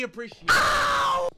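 mock voice for Billy. Voicing the absent Billy.

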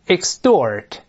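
Extort with the t softened to a d sound; voiced T in Extort. Shown as a demonstration. Teacher models Extort for the class to read aloud, voiced t. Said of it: "中间这个t必须浊化".

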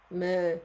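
plaintive little goat cry; sad bleat. Acted. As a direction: bleat it sadly like a homesick goat.

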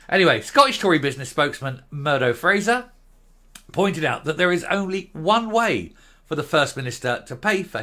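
reading the report aloud like a newsreader; formal news read with a touch of irony. Acted. Reads out the news item.

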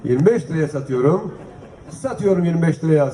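brisk auction calling, price by price; auctioneer. Acted. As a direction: call out the bids like an auctioneer. S1 runs the auction calls. (mezat sunucusu gibi fiyat çağırma)

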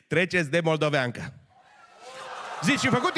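ordinary delivery

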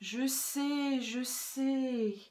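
weary, drawn-out sigh of sympathy; mildly resigned old granny. Acted. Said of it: "soupira la grand-mère".

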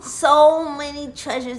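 loud, drawn-out wonder; amazed. Acted. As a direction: marvel slowly at a hoard of treasure. Treasures revealed in the story.

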